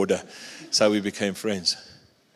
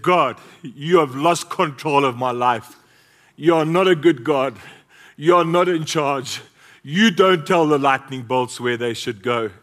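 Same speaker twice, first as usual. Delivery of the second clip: retold shout; 3 semitones higher, 5 dB louder than usual. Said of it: "he shouted at God".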